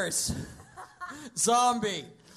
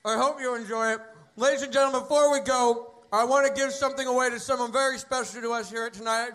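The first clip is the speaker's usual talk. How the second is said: announcer voice. Acted. Mock show host sign-off.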